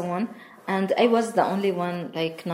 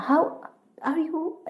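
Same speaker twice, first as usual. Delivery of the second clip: put-on how are you in a light Moroccan accent, said higher; lightly imitated Moroccan accent, pitched up; 9 semitones higher, slower than usual. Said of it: "yeah, the Moroccan accent".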